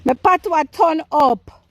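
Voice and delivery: put-on Jamaican accent turned up; Jamaican patois. Gardener bragging about turned-up patois, Jamaican accent. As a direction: proudly declare it in Jamaican patois. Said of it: "My, my Jamaican accent".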